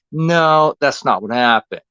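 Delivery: loud, sharp no; angry denial. Real, not acted. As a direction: cut them off hard.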